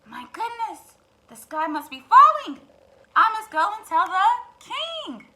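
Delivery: high, loud hen panic; panicked hen. Acted. Hen panics that the sky is falling. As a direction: cluck out the alarm.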